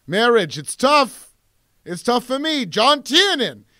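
lightly voiced world-weary husband; John McTiernan. Filmmaker lamenting his marriages, mock self-pity. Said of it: "So he's like".

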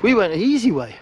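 breathless and wheezing after steep steps; wheezy voice. Real, not acted. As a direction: gasp the words out between breaths. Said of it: "I can't get my breath".

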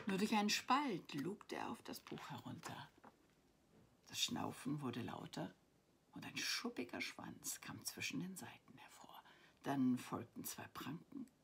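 expressive storybook reading; story narration. A narrator's reading. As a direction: read a bedtime adventure aloud, lingering on key words. Reads her story aloud.

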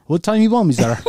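high, put-on humble servant; mock servant voice. Teasing his cohost, high mock butler voice. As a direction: play the eager butler asking for orders.

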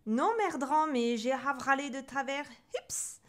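garbled, hiccupy protest; hiccuping. A narrator's reading. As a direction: talk through a bout of hiccups. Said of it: "tu as le hoquet".

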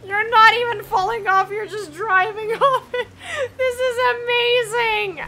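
high and loud through laughter; can barely talk for laughing. Real, not acted. Laughing at friend falling off.

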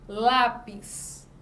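"Lápis" with a firm push on "Lá"; penultimate stress. Shown as a demonstration. Teacher giving a paroxytone example, stress on "Lá". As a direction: stress the first syllable of "Lápis", letting "pis" fall away. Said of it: "Paroxítona é na penúltima sílaba".

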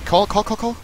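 urgent shouting. Real, not acted. Urgent callout during fight.

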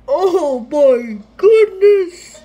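loud high disbelief; excited squeal. Real, not acted. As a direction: shout in joyful disbelief. Reacting to win.

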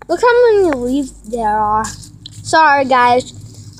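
talking while chewing gum; words around a wad of gum. Real, not acted. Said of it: "I'm chewing gum right now".

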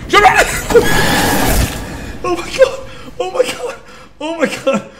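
high shriek dissolving into laughter; panicked laughing scream. Real, not acted. Streamer startled by the monster, screaming laughter. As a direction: scream then laugh helplessly.

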